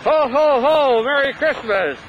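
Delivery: jolly ho ho ho. Acted. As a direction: boom out a Santa ho ho. Santa's second take.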